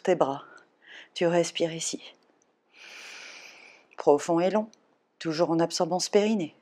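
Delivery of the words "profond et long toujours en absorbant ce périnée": blowing out hard. Real, not acted. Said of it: "Vous m'entendez souffler par la bouche".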